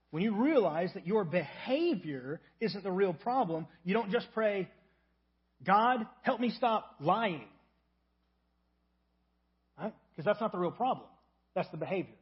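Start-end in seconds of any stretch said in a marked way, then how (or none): 5.6-7.5 slow, drawn-out mock prayer, a touch louder; shallow prayer. Pastor voicing a shallow prayer, slow and drawn-out. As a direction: drag out a surface-level plea to God.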